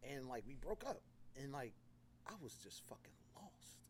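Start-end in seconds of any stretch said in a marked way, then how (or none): 2.3-3.8 hushed whisper of despair. Retold or imitated. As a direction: breathe it out, barely voiced. Telling of being lost after breakup.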